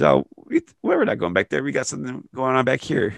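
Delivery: a hint of a showy Jericho; mock Jericho voice. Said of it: "He says".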